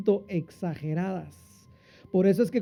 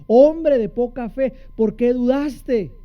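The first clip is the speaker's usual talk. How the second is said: firm rebuke; 4 semitones higher, 5 dB louder, slower than usual. Retold or imitated. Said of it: "el Señor le dijo".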